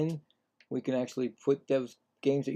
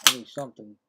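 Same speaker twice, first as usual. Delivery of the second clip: yawning. Real, not acted. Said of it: "I don't know why I'm yawning a lot".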